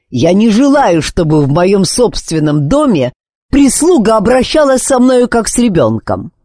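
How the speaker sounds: near-yell of impotent fury; helpless rage. A narrator's reading. Husband nearly shouts at the nurse in helpless fury. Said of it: "он вот-вот закричит, охваченный бессильной злобой".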